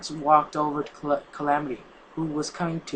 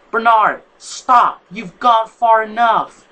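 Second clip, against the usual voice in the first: higher, much louder desperate yell, slow at the end; 6 semitones higher, 11 dB louder, much slower than usual. Acted. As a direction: shout him down to stop the attack. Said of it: "and yelled".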